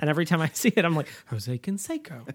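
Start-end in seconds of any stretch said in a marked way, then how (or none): 1.3-2.3 staccato cartoon voice, lower, quieter. Recalling a cartoon episode, saying a ballplayer's name in a Mr. Burns impression. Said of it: "I say it like Mr. Burns says".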